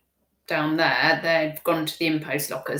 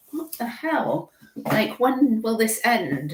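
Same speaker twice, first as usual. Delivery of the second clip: mock exasperation; 4 semitones higher, slower than usual.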